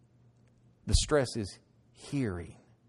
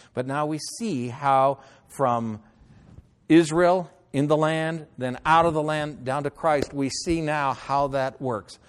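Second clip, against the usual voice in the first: preaching loud; 4 semitones higher, 7 dB louder than usual. Real, not acted. Preacher building the point.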